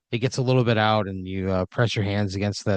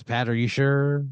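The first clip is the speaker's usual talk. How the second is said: game show host; 4 semitones higher than usual. Acted. Host checks the decision.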